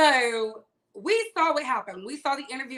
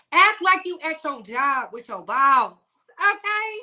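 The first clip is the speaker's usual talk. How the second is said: ordinary talk, nothing marked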